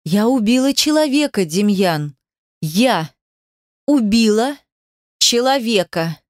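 a touch of hysteria, broken into single words; stunned, halting confession; rising hysteria. A narrator's reading. Heroine confesses to Demyan that she killed, rising hysteria. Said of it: "меня снова охватывает истерика".

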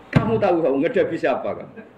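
Umar barks down his interrogators; snapping at the angels. Acted. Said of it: "Wani gak nyentak Munkar Nakir".

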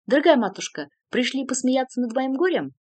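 loud, edgy, bitter outburst; nervous exclamation. A narrator's reading. Son bitterly greeting his mother, loud and nervous. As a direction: cry out, on edge. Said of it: "с нервным смешком вскричал".

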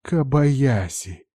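slow hissed name through clenched teeth. Acted. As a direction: hiss the enemy's name in cold fury. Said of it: "прошипела Норика". (прошипела медленно, сквозь зубы)

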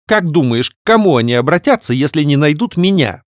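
high, loud and cold; icy. Acted. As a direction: freeze her with it. Sister's cold threat. (ледяным тоном)

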